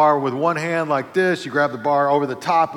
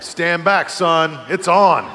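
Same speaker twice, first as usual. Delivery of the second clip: louder cocky challenge; mock bravado; 3 semitones higher, 6 dB louder, much slower than usual. Preacher to teasing partner, louder mock bravado. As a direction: play up the bravado.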